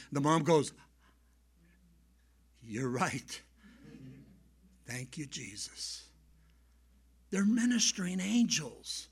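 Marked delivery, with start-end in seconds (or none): 2.6-6.0 low, soft, slowing voice; hushed relief. Retold or imitated. Mom learning an angel caught her boy, hushed. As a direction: let it sink in, then give thanks quietly. Mother's awed reply after long pause.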